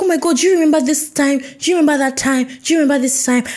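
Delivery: high, quick acted enthusiasm; excited gushing. Two readers reliving a book they both read, excited.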